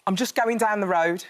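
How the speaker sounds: Brummie demo line, lightly pushed; Birmingham accent. Shown as a demonstration. Coach demonstrates a Brummie line to the actress. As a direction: coach shows the Brummie vowels. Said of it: "I want you to say".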